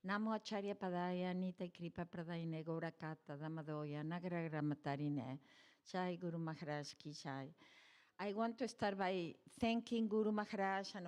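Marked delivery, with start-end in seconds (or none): 0.1-7.5 a measured, reverent recitation of the Sanskrit verses; recited prayer. Acted. Recites prayers to her guru.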